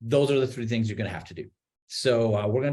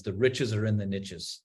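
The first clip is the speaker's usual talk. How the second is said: lightly imitated Texas drawl, barely off his own voice; a hint of a slow Texas drawl on the catchphrase; Haas Pratt Texas drawl; 3 semitones lower than usual. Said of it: "in his Texas drawl".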